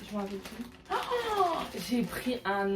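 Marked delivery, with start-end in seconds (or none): 0.9-1.6 high, soft "oh"; delighted gasp. Real, not acted. Vlogger discovering the next outfit in the haul, delighted gasp.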